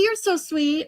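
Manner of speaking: high, lively thank-you; touched and bright. Real, not acted. Streamer thanks viewer Katie, high and gushing. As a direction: gush at the kind gesture. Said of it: "Aw, Katie".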